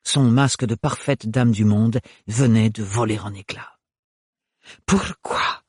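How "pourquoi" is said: breathless, toneless whisper; "Pourquoi" drained of all colour. A narrator's reading. Bérénilde stunned, repeats it in a toneless voice. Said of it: "répéta-t-elle d'une voix blanche".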